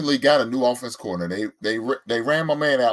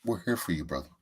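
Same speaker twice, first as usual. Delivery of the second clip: intervention voice; 7 semitones lower, 8 dB quieter than usual. Pretend. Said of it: "I don't like your intervention voice".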